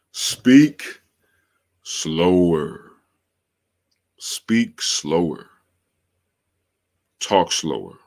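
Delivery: drawn-out words with long pauses; slow and deliberate. Real, not acted. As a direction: take your time on every word. Reads out the tip slowly, deliberately.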